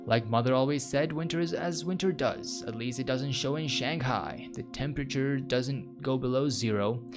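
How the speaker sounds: chatty, theatrical inner monologue; storytelling read with a light dramatic lilt; lightly voiced game protagonist. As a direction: read it as a character musing to themself. Reads game protagonist's monologue aloud.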